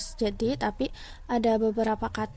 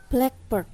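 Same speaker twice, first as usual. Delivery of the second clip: blackbird with the weight on "black"; stress on first part. Shown as a demonstration. Lecturer giving an example of compound stress, first part stressed. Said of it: "Blacknya ini lebih ada tekannya".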